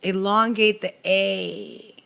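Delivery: drawn-out A at the end of "Elongate the A"; elongated A. Shown as a demonstration. Producer directing the voice actor, elongated A. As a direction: stretch the "A" long and slow. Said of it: "Do it this way".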